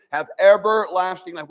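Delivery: "everlasting" punched out; emphatic scripture quoting. Shown as a demonstration. Preacher stressing the promise of salvation, emphatic scripture quoting. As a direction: hit "everlasting" with firm emphasis. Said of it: "We emphasize those words".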